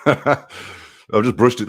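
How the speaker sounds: slow, laughing repeat; amused slow retort to chat. Real, not acted. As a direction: drag it out through a laugh.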